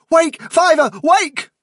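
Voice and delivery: high, sharp cries to rouse someone; urgent call. A narrator's reading. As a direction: call out loud, one word at a time. Clawing a friend to wake him.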